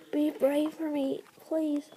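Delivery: dying queen's soft endearment; faint tender whisper. Acted. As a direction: caress him with the words. Dying mate asks courage.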